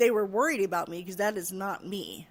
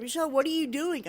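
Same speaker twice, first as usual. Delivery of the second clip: imitating a startled nurse, higher and louder; alarmed call; 8 semitones higher, 5 dB louder than usual. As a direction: call her name like you just caught her walking off. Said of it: "My nurse was like".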